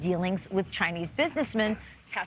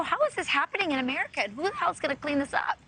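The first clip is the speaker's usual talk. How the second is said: put-on quick, higher Spanish-accented English; 5 semitones higher, faster than usual. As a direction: slip into a Spanish accent mid-sentence. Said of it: "I love when you do the Spanish accent".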